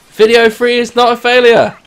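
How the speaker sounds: loud, high proclamation; triumphant declaration. Real, not acted. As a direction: announce victory to the audience.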